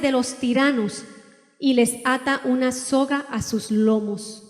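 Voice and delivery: slow, deliberate reading of the Bible verses; solemn scripture reading. Acted. Preacher reading Job to the congregation, slow and solemn. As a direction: lay each phrase of Job down slowly and weightily. Reads Job twelve aloud.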